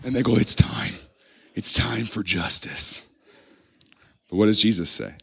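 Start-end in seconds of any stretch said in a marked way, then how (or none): 0.4-3.1 slow, measured mock solemnity; ominous anticipation. Crowd expects justice to fall, slow and ominous. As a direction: announce the reckoning slowly, with weight. Crowd awaits judgement on Zacchaeus.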